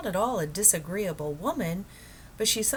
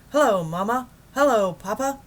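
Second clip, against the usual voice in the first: loud, high, cheery radio greeting; Admiral Drake on the radio; 6 semitones higher, 10 dB louder than usual. Acted. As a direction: hail the folks back home. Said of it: "a faint voice floated out".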